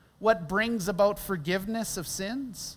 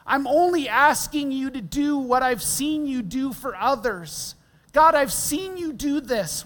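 acted pleading, voice lifting as it goes; 3 semitones higher than usual. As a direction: plead earnestly, pushing the pitch up toward the end. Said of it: "you're pleading".

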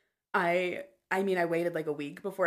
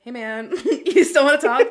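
mock cheerful check-in; 6 semitones higher, 13 dB louder than usual. Retelling own chirpy text.

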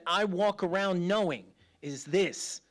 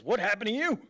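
higher, startled mock question; retold astonishment; 4 semitones higher, 3 dB louder, faster than usual. Brother seeing the mark on his face, mock astonishment. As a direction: imitate a brother taken aback.

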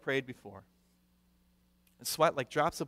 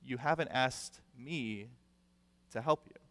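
gentle, smiling; 5 dB quieter than usual. Retold or imitated. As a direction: let your son know kindly, unhurried. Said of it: "smiles and said".

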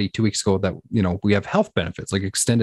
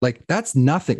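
retold disbelief; 4 semitones higher, slower than usual. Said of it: "And I was like".

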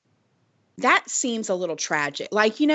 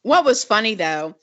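chewing while talking; mouth full; faster than usual. Real, not acted. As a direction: talk through a gummy bear. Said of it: "Quit chewing. I can hear you eating".

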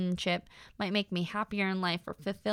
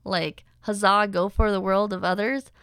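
incredulous disbelief; 4 semitones higher than usual. Retold or imitated. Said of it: "I'm like".

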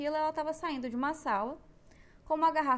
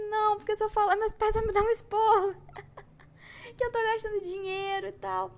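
retold tearful outburst; 9 semitones higher, 6 dB louder than usual. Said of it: "Eu comecei a chorar no banheiro".

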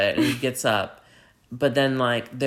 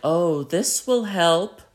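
knowing pretence; 5 semitones higher, 4 dB louder, slower than usual. Retold or imitated. Ladies finding candles, knowing wink.

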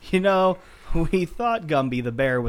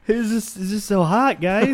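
bear voice; 5 semitones higher than usual. Pretend. Voicing the bear, laughing.

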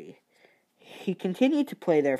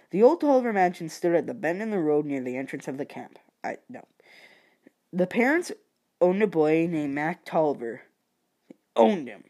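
usual speaking voice

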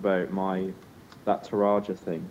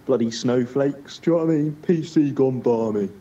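mock indignant bloke; 3 semitones higher, 4 dB louder than usual. Podcaster spoofing people who moan about snowflakes, mock indignant. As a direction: put on a blustering moaner, pitched up. Puts on ranting bloke, then proposes Cockney accents.

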